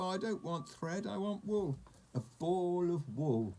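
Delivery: high, fussy refusal; insistent correction. A narrator's reading. Hard-of-hearing sheep to shopkeeper, fussy high insistence. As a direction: brush the mistake aside, high-pitched.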